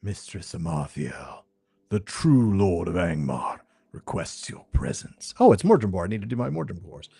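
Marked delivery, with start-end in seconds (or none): 0.0-5.3 lower, booming herald's call. Acted. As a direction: summon her like a distant herald. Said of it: "A booming voice echoes".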